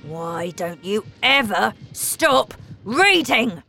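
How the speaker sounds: a father's fed-up shout. A narrator's reading. Father yelling at Matilda over her book. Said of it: "he shouted".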